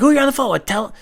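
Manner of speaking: very high, loud mom voice; yelling mom. Retold or imitated. Mom interrupts her son's phone call, high loud yelling. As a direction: holler it into the extension.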